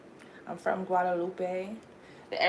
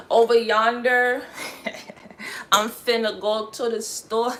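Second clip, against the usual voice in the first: mock Southern accent, a bit loud; playful take on a Southern speaker; 3 semitones higher, 4 dB louder than usual. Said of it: "how they talk over there down south".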